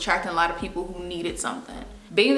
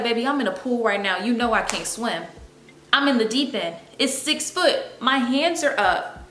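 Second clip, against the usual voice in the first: dramatic plea; 5 semitones higher than usual. Retold or imitated. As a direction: beg like you're going under. Drowning metaphor, pleading.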